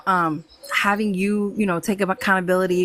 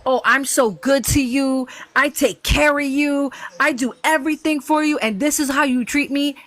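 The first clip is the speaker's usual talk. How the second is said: mock guilt-tripping partner; 3 semitones higher than usual. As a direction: imitate a put-upon partner guilt-tripping, lightly. Voicing a manipulative partner's guilt trip.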